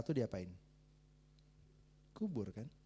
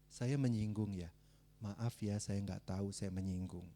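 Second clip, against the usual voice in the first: soft, lowered apology, slow; humble apology; 7 semitones lower, 5 dB quieter, slower than usual. Retold or imitated. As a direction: say sorry gently and quietly.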